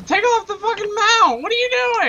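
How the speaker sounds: loud, high-pitched yelling; exasperated full-volume order; frantic shout. Real, not acted. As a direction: yell it urgently at a teammate. Yelling at teammate to dismount.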